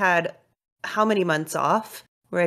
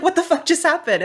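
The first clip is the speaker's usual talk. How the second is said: retold shock; 8 semitones higher than usual. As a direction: replay the stunned moment. Both shocked after fall.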